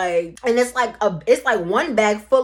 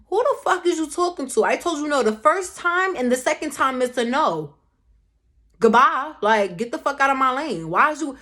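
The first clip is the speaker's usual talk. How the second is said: higher, emphatic retold telling-off; indignant telling-off; 3 semitones higher than usual. Retelling a row with a co-worker over bags, indignant telling-off. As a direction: tell him off, re-enacting the row.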